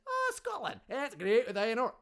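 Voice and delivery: mock other people. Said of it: "Nobody says".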